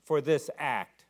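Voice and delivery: loud, slow pleading cry; a loud, drawn-out plea to heaven. Retold or imitated. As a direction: call out to God with full force. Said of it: "he cries out".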